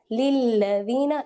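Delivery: लिल्लज़ीना slow with the l doubled; don't rush, hold the ll. Shown as a demonstration. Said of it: "इसको लीला जीना नहीं पढ़ेंगे".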